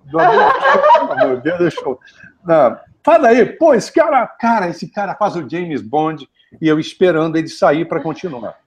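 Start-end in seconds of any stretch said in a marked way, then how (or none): 0.1-6.3 excited fan. Retold or imitated. Excited fan at lunch table.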